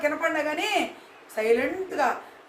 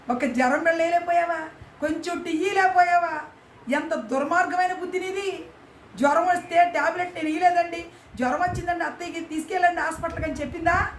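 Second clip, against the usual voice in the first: raised, indignant rebuke; indignant scolding; 5 semitones higher than usual. Real, not acted. Storyteller condemning the cruel daughter-in-law, indignant.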